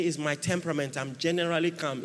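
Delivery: a hint of a soft self-excusing voice; mock calm excuse. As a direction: play the timid quiet pray-er, lightly. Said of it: "You say".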